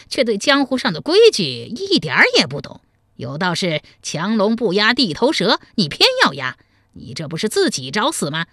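gloating villain, lively swooping pitch; amused scorn. Acted. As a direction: toy with your captive, mocking and menacing. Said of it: "不怒反笑".

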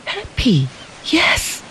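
soft answer. A narrator's reading. Softly answered.

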